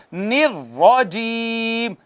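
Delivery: نراجیم with a thick doubled ر, drawn slowly; heavy ra. Shown as a demonstration. Teacher models heavy ر recitation, slow chant. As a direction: recite نراجیم full-mouthed. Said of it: "اور پڑھیں گے".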